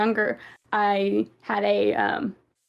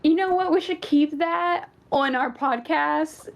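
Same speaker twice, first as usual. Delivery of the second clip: imitating a listener; 6 semitones higher than usual. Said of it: "And if you're like".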